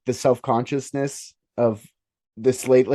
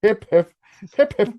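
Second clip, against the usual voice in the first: put-on British accent; 7 semitones higher, 4 dB louder than usual. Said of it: "I don't know how to do a fucking accent".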